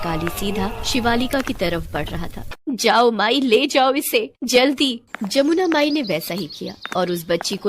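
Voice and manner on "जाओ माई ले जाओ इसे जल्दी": higher, louder, pressing plea; urgent command. Acted. Mother urges the old woman to flee with the baby, urgent. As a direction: send them away in a hurry.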